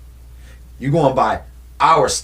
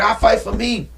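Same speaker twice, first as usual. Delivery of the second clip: Drago defiant; 8 semitones higher than usual. Retold or imitated. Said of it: "he was like".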